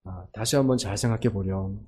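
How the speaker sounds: soft, low coaxing parent; hushed parent gently talking a child out of mission work; gentle parent. Retold or imitated. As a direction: softly urge your child to reconsider. Parent answers child's mission plan.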